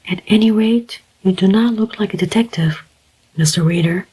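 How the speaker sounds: a lightly voiced young woman, amused; smiling. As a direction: tease him gently with a smile. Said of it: "smiled the girl".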